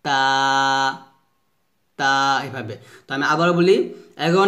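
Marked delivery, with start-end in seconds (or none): 0.0-2.1 তা with a light T and open "aa"; thin, open "taa"; thin normal T. Shown as a demonstration. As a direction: keep তা light and unforced. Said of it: "পাতলা করে উচ্চারণ করব".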